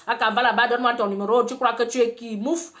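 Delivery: loud brash pickup line, mocking the guy; hammed-up loud street-guy voice; Cameroonian street guy. Mocking a Cameroonian guy's pickup line, loud and brash. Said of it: "le gars va te dire".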